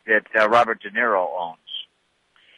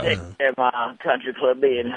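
rich guy voice. Pretend. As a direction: lazily play the wealthy club member. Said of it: "That's his rich guy voice".

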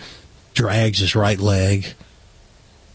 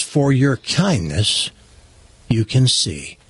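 slow, measured blessing; solemn healer; slower than usual. Acted. Robed man healing the blind man for his kindness, solemn. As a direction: pronounce the miracle slowly, with weight. Jesus figure bestows a miracle.

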